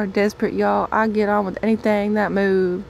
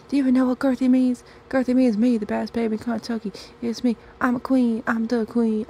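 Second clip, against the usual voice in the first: higher, faster, offended insistence; indignant protest; 4 semitones higher than usual. Acted. Gerthilda tells her date, huffy and indignant. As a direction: stand up for your nickname, huffy.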